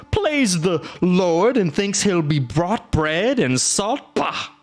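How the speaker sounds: high, indignant beast rant; worked-up monster. A narrator's reading. Monster ranting about the rude guest, indignant. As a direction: rant in offended outrage. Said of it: "The monster got himself worked up".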